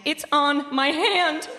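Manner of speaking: slow horrified realization; disgusted shock. Retold or imitated. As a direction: recoil in disgust. Discovering puke on hand.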